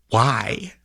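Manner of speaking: normal talking voice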